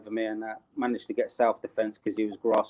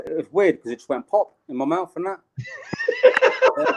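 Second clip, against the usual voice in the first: laughing; 6 dB louder than usual. Real, not acted. Laughing while telling gory story.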